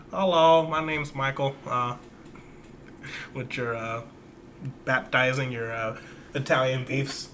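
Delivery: put-on lightly done Chicago Polish accent; a hint of a Chicago Polish accent, teasing; Grodek's Chicago Polish accent. Host teases listener Grodek with a light Chicago Polish accent. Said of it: "That's the best impression I can do of the sturdy boy Grodek".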